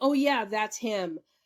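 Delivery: ordinary talk, nothing marked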